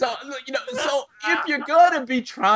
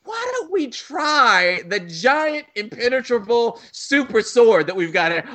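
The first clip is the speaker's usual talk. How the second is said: hammy pilot realizing; 4 semitones higher than usual. Retold or imitated. Pilot about to die suggesting the sword, hammed-up. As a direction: overplay the obvious idea. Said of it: "only then does it dawn on them".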